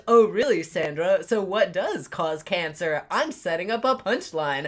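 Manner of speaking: imitating a smug actor setting up a joke; mock-smug, telegraph the coming punchline; put-on self-satisfied setup line. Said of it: "he just has this smug fucking look".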